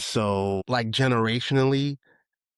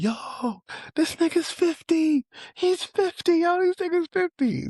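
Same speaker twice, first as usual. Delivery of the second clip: far higher, shouted call-out to the section; hyped announcing. Retold or imitated. Hakeem telling the whole section his age, high and hyped. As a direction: broadcast it to everyone like breaking news. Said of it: "Hakeem was like".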